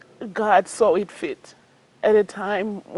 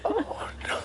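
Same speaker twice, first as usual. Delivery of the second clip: breathless laughing disbelief; 13 semitones higher, 8 dB quieter than usual. Real, not acted. Proposal lands on her.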